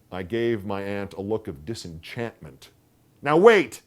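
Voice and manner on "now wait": high, loud sudden "Now wait"; a thought hits her mid-sentence; sudden cry. A narrator's reading. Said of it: "she cried suddenly".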